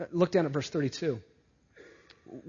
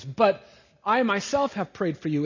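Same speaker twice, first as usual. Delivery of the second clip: "myself" pressed, louder line; emphatic; 4 semitones higher, 5 dB louder than usual. Acted. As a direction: stress on "myself", raised voice. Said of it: "Jesus is emphatically saying".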